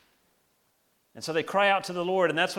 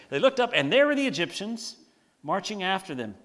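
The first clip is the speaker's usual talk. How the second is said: cartoon retelling; 3 semitones higher, 4 dB louder than usual. Shown as a demonstration. Pastor retelling the Egyptians' arrival as a cartoon, hammed-up. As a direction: play the reveal like a cartoon gag. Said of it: "Doesn't it sound like a cartoon".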